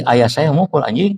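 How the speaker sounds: no long break, lift the end of "anjing"; changed intonation. Shown as a demonstration. Teacher contrasting intonations for listeners, rising on "anjing". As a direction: run the phrase together, "anjing" rising at the end. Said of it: "Intonasi diganti".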